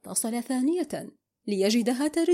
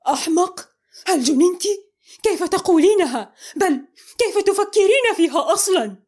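loud, high, outraged; shouting; 7 semitones higher, 6 dB louder than usual. A narrator's reading. Mohamed shouting, offended at being called a fool. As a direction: yell back at the insult. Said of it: "أكمل صراخه".

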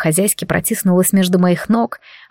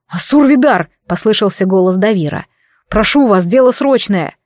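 calling through door. Acted. Давир calls the master through the door, urgent and raised.

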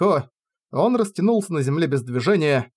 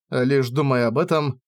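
usual speaking voice

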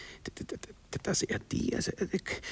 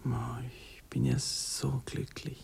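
tearful happiness; 3 semitones lower, 4 dB quieter, slower than usual. Acted. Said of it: "du brauchst nicht auch noch zu weinen".

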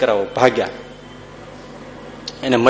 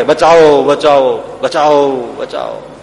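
cry for help; slower than usual. Retold or imitated. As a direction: echo a distant plea for help that dies away. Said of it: "ત્યાં તો પુકાર ઉઠે". (મદદનો લાંબો પોકાર, ધીમે ધીમે શમતો)

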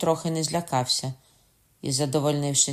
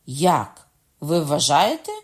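louder, incredulous cry; surprised outcry; 7 dB louder, slower than usual. A narrator's reading. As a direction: exclaim in disbelief. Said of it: "скрикнув Кокона".

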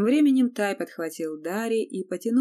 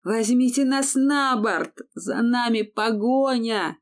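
loud, high, slow bellow; yelling; 5 semitones higher, 6 dB louder than usual. A narrator's reading. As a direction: yell with all your strength. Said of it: "заорал, что было сил".

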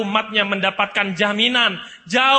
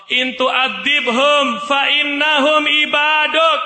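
voicing Prophet Isa; 5 semitones higher, 6 dB louder, much slower than usual. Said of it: "Nabi Isa berkata kepada Allah".

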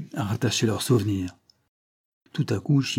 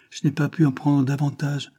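put-on pleading child; 5 semitones higher than usual. Child excuses itself to angry man.

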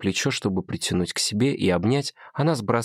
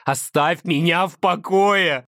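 higher and slow, full of hatred; hateful scream; 9 semitones higher, 4 dB louder, slower than usual. A narrator's reading. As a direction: scream it through the tears. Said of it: "кричит она с ненавистью".

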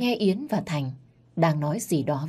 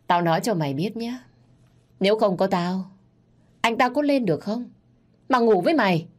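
mocking retort; 4 semitones higher than usual. Mistress taunting the wife, gloating. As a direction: rub it in her face.

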